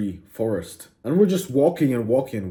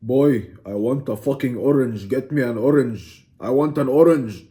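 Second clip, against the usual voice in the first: acted angry demand, building louder; hammed-up rising irritation; getting angry; 4 dB louder than usual. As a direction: insist with mock anger, punching the last demand. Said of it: "I'm getting angry".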